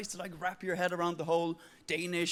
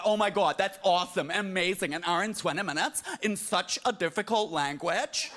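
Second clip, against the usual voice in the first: gushing praise; 4 dB louder than usual. Retold or imitated. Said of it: "They was like".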